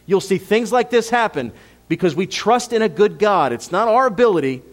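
fervent preaching. Acted. Pastor assuring the church God is good, fervent preaching. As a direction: push the repeat out with full force.

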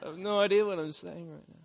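mumbled soft pretend daze; faking grogginess. Husband pretending to be groggy for his wife, lightly mumbled. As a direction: play half-asleep and confused. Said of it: "I fake like the, I'm out of it".

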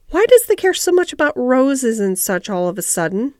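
firm, mildly demanding question. Acted. Ben questions the eager girl suddenly, mildly demanding. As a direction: demand an explanation, a touch suspicious. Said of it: "he demanded".

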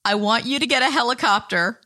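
high pleading whine, petulant; whiny demand. Retold or imitated. Demanding a helicopter from her friend, petulant whine. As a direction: whine like a spoiled kid. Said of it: "And I said".

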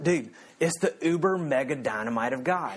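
lightly imitated Southern accent; deep Southern accent. Campus minister hyping the Greek to a friend, Southern accent impression. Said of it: "he's got a deep Southern accent".

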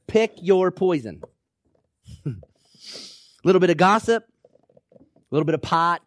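sly tempter. Acted. Tempter offering the congregation small sins, sly. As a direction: dangle the temptation like a salesman. Preacher voicing worldly tempter.

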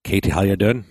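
understated try at an Irish accent; attempted Irish accent. Shown as a demonstration. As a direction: test a slight Irish lilt on a greeting. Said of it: "how's my Irish accent?".

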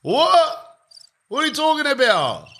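high squeaky outraged "What?"; shocked disbelief. Retold or imitated. Band hearing they lost the final, high outraged disbelief. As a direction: shriek your disbelief at the result. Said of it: "we go".

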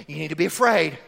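mocking society. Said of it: "that's the way our society tells us".

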